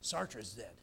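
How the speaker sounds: deep, low voice of God; God's reply. Acted. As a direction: answer as God, low and grave. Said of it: "Guess what God said?".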